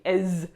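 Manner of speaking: "ez" with a voiced Z sounded at the end; wrong pronunciation. Shown as a demonstration. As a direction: buzz the final Z in "ez". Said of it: "don't say chaise and pronounce".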